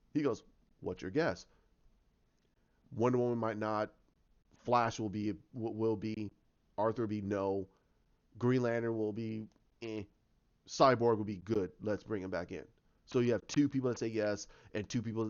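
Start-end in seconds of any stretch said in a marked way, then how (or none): 0.8-12.6 low, measured guesswork; retold low musing. Detective guessing the team's votes, low and measured. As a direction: count them off low, item by item.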